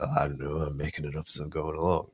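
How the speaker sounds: weak impression of a film hero; quick offhand hero line, lightly voiced; terrible Harrison Ford. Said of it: "that's a terrible Harrison Ford, uh, with my Australian accent as well".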